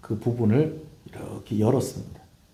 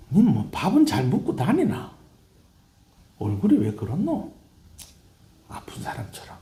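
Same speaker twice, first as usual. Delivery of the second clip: tearful, quieted mother; 5 semitones higher than usual. Acted. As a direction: let the scolding fade into hushed worry. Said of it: "갑자기 조용해집니다".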